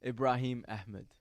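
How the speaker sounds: Ibrahim Ahmed with a clear h in Ahmed; correct pronunciation. Shown as a demonstration. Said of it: "That's terrible pronunciation".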